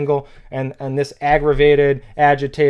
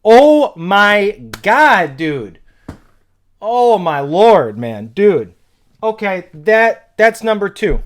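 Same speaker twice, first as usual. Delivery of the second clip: slow, louder oh my God, higher; real hype, stretched and raised; hyped disbelief; 4 semitones higher, 4 dB louder than usual. Real, not acted. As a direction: savour the line in amazement. Replays the lyric, overwhelmed.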